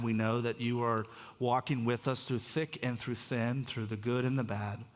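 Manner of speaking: steady, earnest prayer voice; closing prayer. Acted. Pastor praying over the congregation, steady and earnest. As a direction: lift it to God in calm earnest prayer.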